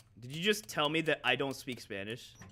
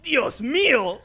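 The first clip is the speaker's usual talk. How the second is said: high, loud mock dub cry of Dios mío; hammed-up Spanish dub shock; dubbed exclamation; 8 semitones higher, 10 dB louder, slower than usual. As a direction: belt it like an overacted dub actor. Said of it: "And they're like".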